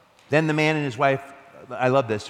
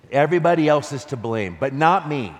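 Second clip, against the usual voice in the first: mock indignant; 3 semitones higher, 6 dB louder than usual. Mocking blame-shifting.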